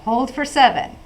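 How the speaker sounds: counting the breath. Shown as a demonstration. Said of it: "I'll count with my fingers".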